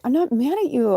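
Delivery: high-pitched mock-upset whine; retold tearful reassurance. Upset owner to her cat, tearful reassurance. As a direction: insist it in a high, half-crying voice. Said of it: "And I started crying".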